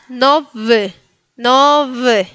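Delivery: "nowy" as no-ve, W buzzed as V; final Y near E. Shown as a demonstration. Teacher gives word with final Y, E-like ending in "nowy". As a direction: split "nowy" with its last vowel leaning to E. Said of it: "un poquito más como una E".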